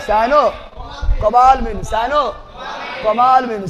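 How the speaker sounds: साइनोकोबालमिन drawn out slowly, every syllable spaced; teacher slows साइनोकोबालमिन down so students can repeat it, slow; slow syllable drill. Shown as a demonstration.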